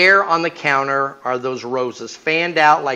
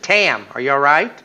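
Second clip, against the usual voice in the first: worried call; 4 dB louder than usual. Retold or imitated. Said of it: "I said".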